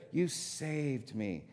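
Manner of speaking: quiet, heartfelt thanks to a rescuer; soft slow thanks. Retold or imitated. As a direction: let the thanks sink in quietly. Restating thanks after aside.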